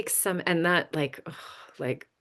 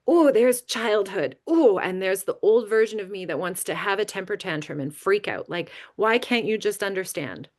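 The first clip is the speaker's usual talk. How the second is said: inner tantrum; 2 semitones higher, 4 dB louder than usual. Retold or imitated.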